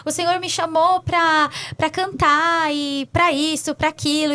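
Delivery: rattled-off protest, re-enacted; recounted pleading complaint, rising as it goes; retold arguing with God. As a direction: argue back at God in a quick, mild replay. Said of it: "eu brigava com Deus".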